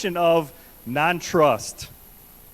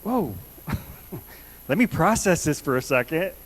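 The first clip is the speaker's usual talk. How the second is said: mock shocked; 3 semitones higher than usual. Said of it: "you're shocked".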